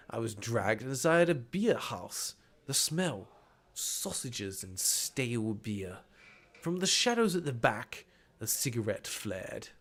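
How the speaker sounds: slow, atmospheric scene-setting; story narration. A narrator's reading. Spy recounts being dragged into beer house, story narration. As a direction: let each detail drop softly at the end. Reads the game's narration aloud.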